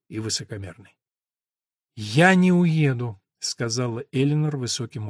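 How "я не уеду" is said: stubborn refusal. Acted. Eleanor defies the house.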